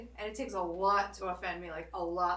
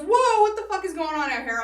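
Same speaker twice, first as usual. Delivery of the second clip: louder, higher startled call; alarmed shout; 8 semitones higher, 11 dB louder than usual. Retold or imitated. Big friend arriving at the fight, shouting. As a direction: burst in to break it up. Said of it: "and he goes".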